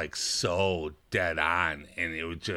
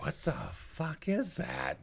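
mock disbelief; 9 semitones higher, 8 dB quieter than usual. Voicing baffled coworkers' reaction.

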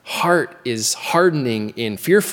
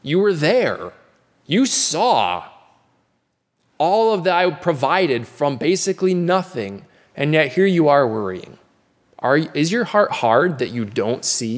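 higher, pleading questions as Jesus; gentle rebuke as Jesus; 3 semitones higher than usual. Acted. Preacher voicing Jesus gently questioning disciples, pleading rebuke. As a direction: gently press the disciples to see it. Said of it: "but he's saying".

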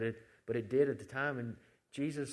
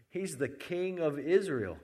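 slow, raised mock proclamation; scornful announcement, higher and louder; 4 semitones higher, 5 dB louder, slower than usual. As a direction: draw out the title as a jeer. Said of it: "mocking him and saying".

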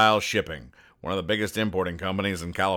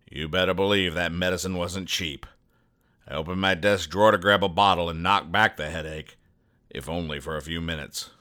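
noir detective. Acted. Noir private eye narration.

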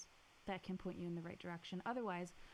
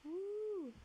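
cheering; 12 semitones higher, 3 dB louder than usual. Real, not acted. Cheers at the Apple Watch.

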